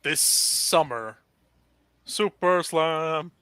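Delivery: slow, drawn-out trailer announcer; horror trailer voice. Pretend. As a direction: stretch it like a movie ad. Mock movie tagline, slow.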